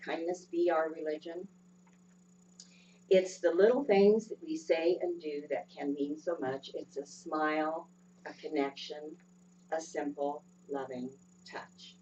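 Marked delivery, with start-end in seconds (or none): 3.1-12.0 tender reading that dies away on loving touch. Shown as a demonstration. Lyrics repeated, fading softer.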